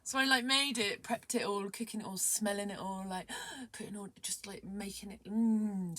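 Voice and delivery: giddy, breathless-with-delight retelling; excited rush of relish; real excitement. Real, not acted. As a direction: gush through each step of cooking. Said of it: "can you tell? I'm a bit excited".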